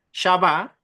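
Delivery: Shabá with the stress on its second syllable; stress on final A. Shown as a demonstration. Teacher spelling out a Hebrew term, Shabá stressed on the final á. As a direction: lean on the closing á of Shabá. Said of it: "con tilde en la A".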